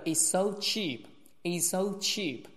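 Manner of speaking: "it's so" joined with one single s; merged S. Shown as a demonstration. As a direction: say one s across "it's so cheap". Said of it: "这里面只读一个". ("it's so cheap"只读一个s)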